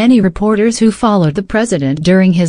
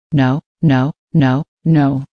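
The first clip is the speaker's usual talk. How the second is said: lower, lisping mock Spanish accent; faux Spanish accent; 5 semitones lower, slower than usual. Noah mocking the Spanish lisp legend, faux Spanish accent. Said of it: "in a faux Spanish accent".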